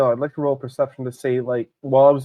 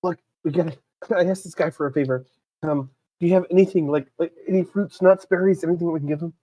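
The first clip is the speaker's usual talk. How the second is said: mock-panicked urgency, pitched up; hurried, higher-voiced plea with a touch of panic; panicked whisper; 5 semitones higher than usual. Player in character begs a companion for squirrel food, mildly panicky. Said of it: "kind of panically whisper to Calamity".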